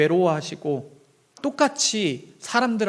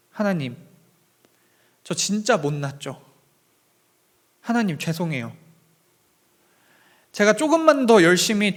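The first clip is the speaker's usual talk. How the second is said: remorseful prayer. Retold or imitated. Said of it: "이런 기도를 올려드렸습니다".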